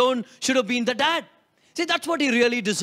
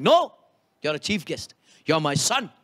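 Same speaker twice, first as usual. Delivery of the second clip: low, gentle reassurance to a son; tender father; 6 semitones lower than usual. Retold or imitated. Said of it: "the dad is like".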